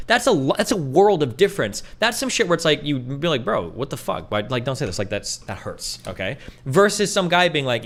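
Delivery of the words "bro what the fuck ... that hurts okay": soft, hurt plea to a friend. Retold or imitated. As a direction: say it like it really stung.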